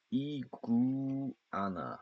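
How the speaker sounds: 이구아나 stretched out slowly, each syllable apart. Shown as a demonstration. Teacher drilling the word for students, slow and separated. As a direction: spell out 이구아나 slowly, one syllable at a time. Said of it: "그다음에".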